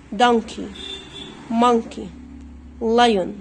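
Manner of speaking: دونكي, مونكي, لايون as "DUN-kee, MUN-kee, LIE-yn"; silent O. Shown as a demonstration. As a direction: recap each word with no o sounded. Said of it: "الاو لا تنطق".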